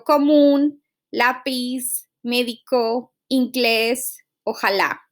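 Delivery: "común, lápiz, médico, inglés, ojalá", each stressed on its accented syllable; teacher's word list "común, lápiz, médico, inglés, ojalá" with accented vowels stressed. Shown as a demonstration. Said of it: "pronounce it with where the accent is".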